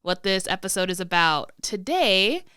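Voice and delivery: congested, sick voice; talking through a head cold; stuffy nose. Real, not acted. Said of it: "if I sound a little weird, that's because I'm super sick".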